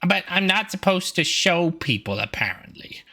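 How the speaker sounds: put-on very high, excited child voice; eager kid penguin. Poncho answering his parents eagerly in a very high child voice. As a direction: blurt it out, then trail off. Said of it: "and he's like".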